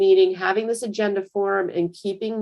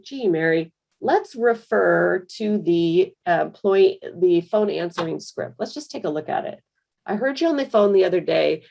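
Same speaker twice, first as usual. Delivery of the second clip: patient, constructive manager tone; gently reassuring boss; calm and helpful. Shown as a demonstration. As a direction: invite her to fix it together. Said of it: "what that kind of tone is doing".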